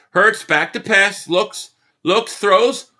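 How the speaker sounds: slow, tense sportscaster call; live play-by-play. Acted. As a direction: build the suspense of the snap.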